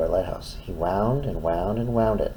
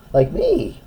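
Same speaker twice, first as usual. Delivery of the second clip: high squeak; 3 dB louder than usual. Acted. Proud lighthouse aside.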